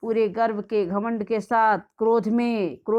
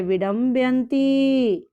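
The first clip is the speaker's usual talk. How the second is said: scolding; 3 semitones higher, 3 dB louder, slower than usual. Shown as a demonstration. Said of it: "यानी डांटती हुई".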